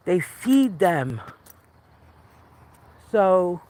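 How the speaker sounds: winded from the uphill walk; breathing hard between words. Real, not acted. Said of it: "if I sound like I'm out of breath".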